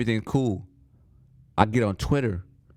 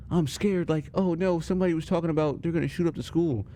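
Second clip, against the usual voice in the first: put-on scared girl; 5 semitones higher than usual. Girl telling her mom.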